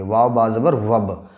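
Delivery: slow, spelled-out recitation: वाव बा ज़बर वब; spelling out letters. Shown as a demonstration. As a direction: sound out वाव, बा, ज़बर, then join them into वब. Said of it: "वाव को बा से मिला देंगे". (अक्षर जोड़कर धीरे-धीरे पढ़ना)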